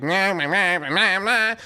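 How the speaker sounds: droning imitation of nagging; mock nagging. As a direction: make their yelling wordless, whiny noise. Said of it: "while they're yelling".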